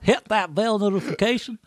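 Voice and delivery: hammed-up promo voice; silly announcer voice. Host hamming up the subscribe plea in a goofy voice. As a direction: pitch it like a goofy ad read. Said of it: "in this voice the whole time".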